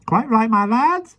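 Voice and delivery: slow, high, pleased little man; smiling. Acted. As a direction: praise the boys kindly. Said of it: "smiled Mister Mo".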